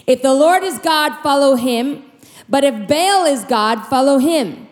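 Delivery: Elijah's mild exasperated challenge to the crowd; a touch of impatience pressing them to choose; annoyed prophet. Retold or imitated. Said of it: "He's annoyed with them".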